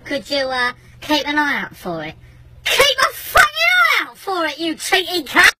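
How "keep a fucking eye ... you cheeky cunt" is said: high, shouted indignant repeat; outraged echo. Retold or imitated. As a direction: throw his request back at him in disbelief. Outraged echo of neighbour's request.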